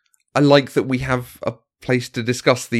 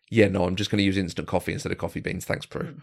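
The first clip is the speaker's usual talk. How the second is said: dry aside; 3 semitones lower, 5 dB quieter than usual. Retold or imitated. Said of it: "So I read through and go".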